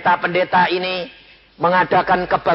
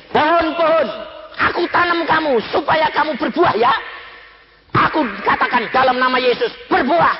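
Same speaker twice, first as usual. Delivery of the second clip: a lightly higher, pleading woman hugging her tree; woman coaxing tree; 9 semitones higher than usual. Retold or imitated. A woman hugging her barren tree, lightly voiced pleading. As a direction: coax the mango tree like a child. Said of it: "Lalu ngomongnya gini".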